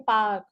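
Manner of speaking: पार्क with a silent R, like "paak"; soft R. Shown as a demonstration. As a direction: drop the R in पार्क, leaving a long vowel. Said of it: "that is park".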